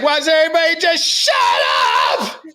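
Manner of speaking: high, shouted movie-villain rant; mock Hook yell. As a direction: blast it like a fed-up pirate captain. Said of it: "He's like".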